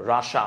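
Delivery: রাশা said with a short a, no i; राशा-like রাশা, not রাশিয়া; Russian pronunciation. Shown as a demonstration. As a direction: say রাশা, dropping the i. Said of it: "উচ্চারণটা কি?".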